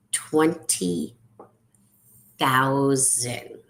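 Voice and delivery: "Twenty ... thousand" slowly, word by word; long pause between "Twenty" and "thousand"; emphatic repeat. Real, not acted. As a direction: let "Twenty" and "thousand" each land alone.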